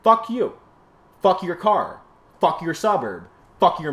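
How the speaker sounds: high, loud shouted curse; yelled curse. Real, not acted. Cursing at car owners, a loud high yell. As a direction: spit it out at the top of your voice. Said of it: "I'm just yelling at a fucking camera".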